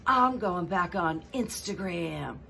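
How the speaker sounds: slow, whimpery mock confession; milk it like a tearful reveal; mock cry. Meghan confiding to the reporter in mock tears. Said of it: "And Meghan says".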